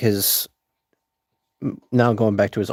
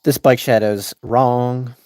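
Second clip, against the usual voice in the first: a loose Southie guy bragging; a hint of a Boston tough-guy accent. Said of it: "To Boston?".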